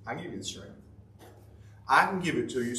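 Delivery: quietly reassuring Lord; gentle God voice. Acted. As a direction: hand over strength gently. God speaks to the weary.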